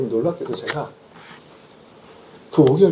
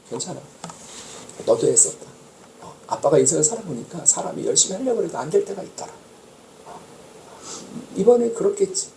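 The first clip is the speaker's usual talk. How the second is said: comforting hug; 2 semitones higher, 5 dB quieter than usual. Retold or imitated. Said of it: "위로해주고 위무해주고 달래줬거든요".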